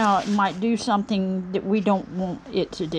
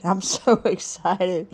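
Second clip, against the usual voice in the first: breaks into a laugh halfway through; laughing mid-word; slower than usual. Real, not acted. Greeting viewers at New Year, laughing through it. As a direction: let a real laugh slip in before excited.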